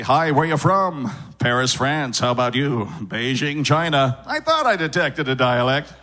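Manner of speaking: put-on uniform, dialect-free American accent; neutralized global accent. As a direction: give every speaker the same neutralized accent. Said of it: "until it just neutralizes out to this".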